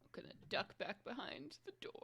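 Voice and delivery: fast sneaky whisper. Real, not acted. Player whispering to the GM about ducking behind the door. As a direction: whisper it as if hiding.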